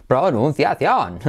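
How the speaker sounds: "Pronunciación" as PRO-NUN-CIA-CIÓN; slow "Pronunciación" bouncing on each syllable; accent all syllables of "Pronunciación"; every syllable stressed. Shown as a demonstration. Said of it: "como que se acentúan todas".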